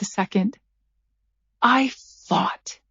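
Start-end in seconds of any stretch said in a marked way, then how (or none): 1.6-2.8 breathy intense whisper. A narrator's reading. Narrator leaning over Howard's bed, fierce whisper. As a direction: hiss it close to his face.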